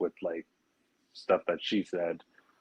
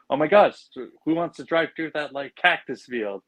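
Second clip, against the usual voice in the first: mock alarmed Bob; 6 semitones higher than usual. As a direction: overplay the startled villain. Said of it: "he goes like".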